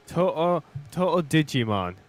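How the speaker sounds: measured build to a loud title; mock trailer announcer. Gamer pitches an imagined new game, mock announcer.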